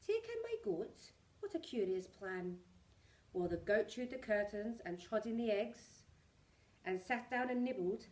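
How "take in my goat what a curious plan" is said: put-on astonished old lady.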